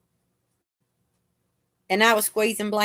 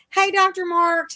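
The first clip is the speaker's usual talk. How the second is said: louder, much higher greeting; retold hail, pitched up; retold called-out greeting; 9 semitones higher, 5 dB louder than usual. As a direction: call out a hello to the doctor.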